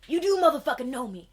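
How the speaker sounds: high, loud and fast; frantic excitement. Acted. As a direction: rush it out, overjoyed. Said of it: "she's like".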